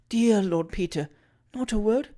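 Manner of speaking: slow, gently coaxing plea; winning coax. Acted. Julia coaxing the silent traveller, gentle coaxing. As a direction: coax a reply from him. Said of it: "most winningly".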